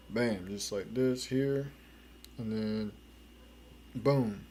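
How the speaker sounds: hiccuping between words; talking through hiccups. Real, not acted. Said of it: "I got the hiccups".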